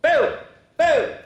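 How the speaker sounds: high, loud playful boo to scare crows; spring it on the kids like a ghost; hammed-up Halloween boo; spooky boo. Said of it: "pumpkin head goes".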